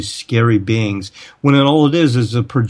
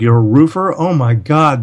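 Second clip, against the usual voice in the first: mildly alarmed, higher-pitched reaction; mock alarm; 3 semitones higher than usual. People reacting to a supposedly evil roofer, in mock alarm. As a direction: imitate someone taken aback, pitch raised.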